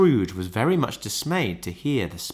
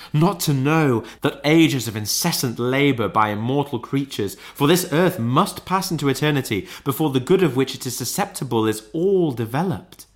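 higher, impassioned ghostly lament; phantom's cry; 5 semitones higher, 3 dB louder than usual. A narrator's reading. Ghost lamenting its misused life, crying out higher. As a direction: declaim with mounting regret. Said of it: "cried the phantom".

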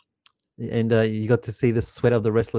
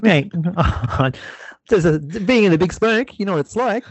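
mock broad Australian accent, pitched higher; Aussie accent; 7 semitones higher than usual. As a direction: play the country Aussie bloke. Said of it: "that's me doing, uh, uh, an accent".

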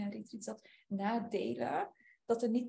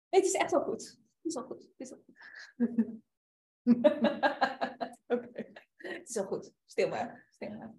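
high hushing, laughing through it; soothing a child; 3 semitones higher, 6 dB louder than usual. Acted. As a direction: lightly comfort like a child. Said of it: "de troosten".

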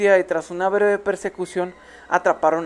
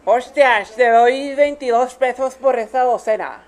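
loud, high mock Spaniard; mock Spanish accent, higher and louder; Spain accent; 5 semitones higher, 6 dB louder, slower than usual. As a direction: ham up a Spanish granny haggling. Spanish-accent old lady quote.

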